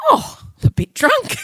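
high, bright tipsy cry; tipsy exclamation. Retold or imitated. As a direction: announce you're a bit drunk, delighted. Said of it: "then I said to Scott".

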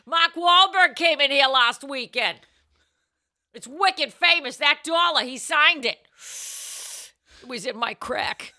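put-on light Boston accent; Boston porn accent. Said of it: "Boston accent".

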